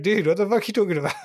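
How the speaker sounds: incredulous. Retold or imitated. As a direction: scoff in disbelief, quickly. Retelling his reply to a conspiracy mate.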